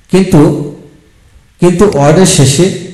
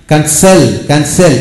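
"ক্যান্সেল" with weight on its closing l; stressed final L. Shown as a demonstration. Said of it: "এল উচ্চারণ হলো".

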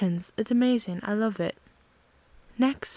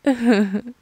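about to cry; 2 semitones higher than usual. Real, not acted. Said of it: "I'm gonna cry".

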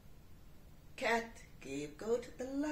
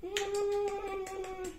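much higher, loud penguin squeak; penguin snapping; 9 semitones higher, 6 dB louder, much slower than usual. Acted. Penguin snapping its approval of the cake. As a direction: snap it out in a high little penguin voice. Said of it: "snapped the penguin".

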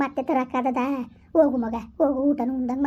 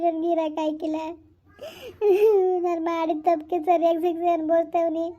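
crying. Acted. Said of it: "ಅಳ್ಬೇಡ".

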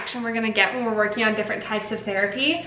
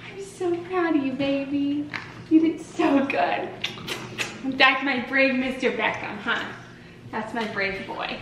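aching tenderness; 3 semitones higher, slower than usual. Real, not acted. Tender talk to baby.

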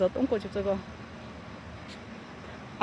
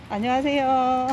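normal talking voice

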